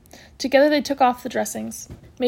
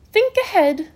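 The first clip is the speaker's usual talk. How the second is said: brisk matron voice; 9 semitones higher, 5 dB louder, slower than usual. A narrator's reading. Matron's motto.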